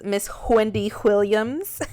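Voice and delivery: put-on playful New York accent, breathy "Wh" on "Wendy Williams". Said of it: "a nod towards Wendy Williams".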